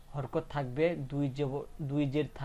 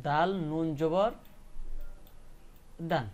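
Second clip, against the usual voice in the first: slow spelling demo. Shown as a demonstration. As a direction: spell দাল নুন জবর syllable by syllable for the class. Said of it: "কিভাবে উচ্চারণ করতে হবে".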